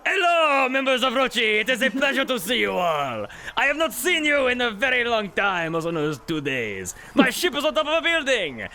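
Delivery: high loud formal greeting; the Duke hailing the crew from his stranded ship; pompous Duke. Acted. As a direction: greet them grandly, then fret. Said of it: "as he goes".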